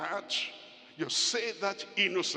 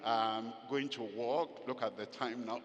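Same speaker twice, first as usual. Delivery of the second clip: gentle farewell; 6 semitones lower, 5 dB quieter, faster than usual. Retold or imitated. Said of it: "to say".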